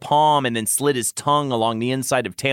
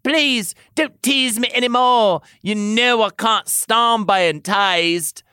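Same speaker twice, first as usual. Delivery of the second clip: pleading; 10 semitones higher than usual. Acted. Tamlin pleading not to stop.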